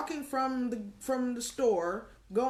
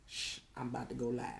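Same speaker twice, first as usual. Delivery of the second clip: soft, hushed warning; 8 semitones lower, 8 dB quieter, faster than usual. Retold or imitated. Lisa hushing her husband before going live, soft. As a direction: shush him like you're about to go live. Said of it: "I hear Lisa goes".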